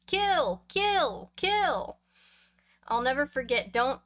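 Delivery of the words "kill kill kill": high shrill dummy scream. Acted. Boy with dummy screams at sleeping brother, high shrill shriek. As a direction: shriek each kill like a killer puppet. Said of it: "screamed at the top of my lungs in a high, shrill voice".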